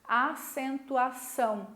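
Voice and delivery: "Acentuação" slowly, closing on the nasal ão; closing diphthong demo. Shown as a demonstration. Teacher shows students the mouth closing, slow careful "Acentuação". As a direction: draw out "Acentuação", letting the mouth close at the end. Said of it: "o que que aconteceu com a minha boca?".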